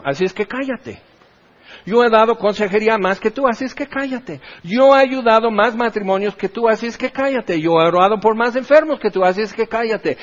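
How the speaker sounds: lightly voiced bragging know-it-all, curt on each cállate; a hint of a proud minister shutting someone up; mock boastful preacher. Pastor imitating a proud minister silencing others, mild mock bragging.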